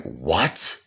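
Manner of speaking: mildly acted astonishment, rising question; blown away. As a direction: imitate a stunned father's question. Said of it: "my father was blown away".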